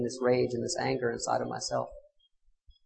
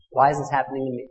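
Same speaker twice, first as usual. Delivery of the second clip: louder and louder furious cry of why; angry prayer; 3 semitones higher, 8 dB louder than usual. Retold or imitated. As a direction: rail at heaven in rage. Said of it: "All anger at myself".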